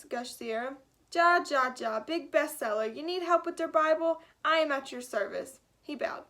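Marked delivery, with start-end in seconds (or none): 1.1-5.6 put-on hearty thick German accent, louder. Gutenberg offering his help to the kids, in a thick German accent. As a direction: boast like a cheerful German inventor. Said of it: "a thick German accent".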